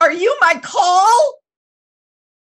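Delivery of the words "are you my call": bursting into high, loud, tearful crying. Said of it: "And I burst into tears".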